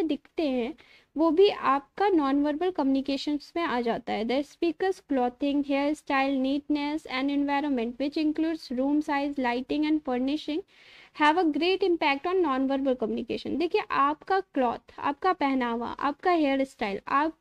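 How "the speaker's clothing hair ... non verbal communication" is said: slow, careful reading of notes; slowly dictating textbook lines; reading aloud. Acted. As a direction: read it out word by word, slowly. Reads English slide text.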